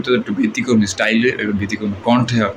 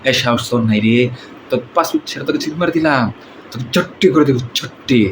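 Misha-style villain voice; odd rasping film baddie; movie villain. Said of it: "ব্যতিক্রম স্টাইলে এবং ব্যতিক্রম কণ্ঠে".

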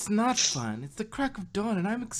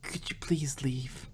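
whisper; 4 semitones lower, 4 dB quieter than usual. Acted. Fluttershy begs Pinkie to leave.

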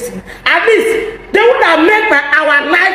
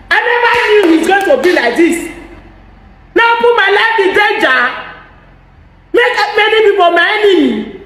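raised voice, higher, lamenting; exasperated outcry; 5 semitones higher than usual. Real, not acted. To the listeners, an exasperated raised-voice lament. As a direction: cry out at the cost of backing him. Despairing outburst about politics.

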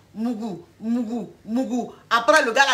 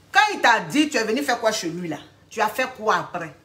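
pressing interrogation. Acted. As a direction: demand an account from the client. Coach presses client for her reaction.

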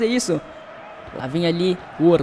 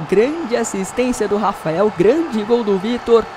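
usual speaking voice

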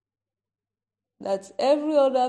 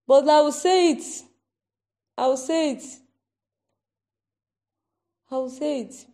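emphatic; 4 semitones higher, 5 dB louder than usual. Real, not acted. Insisting on delivering warning.

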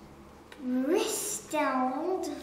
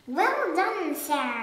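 shout; 3 dB louder than usual. Acted. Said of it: "shouted the Duke".

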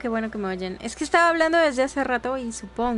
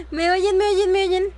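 calling out; 5 semitones higher, 5 dB louder than usual. Real, not acted. Calling out to chat, mic.

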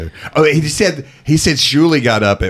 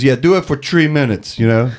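Dice impression; 5 semitones higher than usual. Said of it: "I'm doing a terrible Dice".

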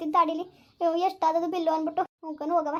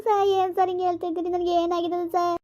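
tearful dismay. Acted. Patient hearing bad news from the doctor, tearful dismay. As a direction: plead through tears, stretching the words.

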